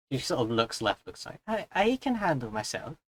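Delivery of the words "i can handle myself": attempted Welsh accent drifting into Irish. Voicing a character asked if she can defend herself: attempted welsh accent. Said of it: "It's supposed to be Welsh".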